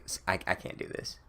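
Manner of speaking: breathless whisper of giving up; whispered retreat. Retold or imitated. Voldemort losing his nerve, whispered. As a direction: whisper it like you're backing away.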